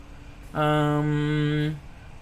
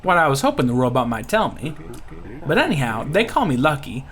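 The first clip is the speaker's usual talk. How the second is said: hammed-up Louisiana accent; Gambit. Pirate introducing himself to the robot, Louisiana accent. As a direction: talk like a folksy Louisiana rogue. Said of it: "I feel myself slipping into the gambit".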